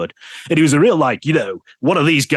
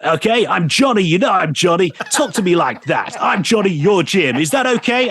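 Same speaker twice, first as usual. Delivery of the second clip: imitating Johnny; 5 semitones higher than usual. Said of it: "And he went".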